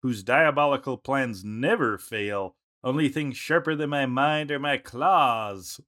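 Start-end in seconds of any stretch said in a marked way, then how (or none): 2.8-5.8 Meowth. Acted. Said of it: "Meowth, uh, he's the feline mastermind".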